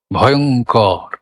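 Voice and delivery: ভয়ঙ্কর with কর made by lips and tongue alone. Shown as a demonstration. Teacher tests the last syllable for students, lip-tongue কর only. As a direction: keep the belly voice out of the কর in ভয়ঙ্কর. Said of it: "আমি শুধু লিপটাং দিয়ে বলবো করটা".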